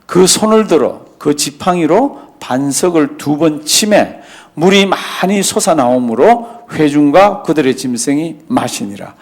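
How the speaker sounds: 천천히 또박또박 성경을 읽는 목소리; 말씀을 한 자 한 자 힘주어 낭독하듯. Acted. Reads verse 11. (느리고 엄숙한 성경 낭독)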